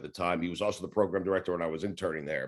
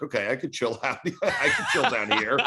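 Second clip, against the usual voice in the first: laughing; 3 semitones higher than usual. Retold or imitated. Retold own thought, laughing.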